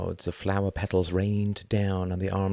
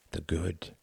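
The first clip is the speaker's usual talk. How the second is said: softer, a quiet reverent statement; hushed, softly weighted "The good"; 2 semitones lower, 8 dB quieter than usual. A narrator's reading. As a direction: say it gently, almost to himself. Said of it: "said Sir Palaret softly".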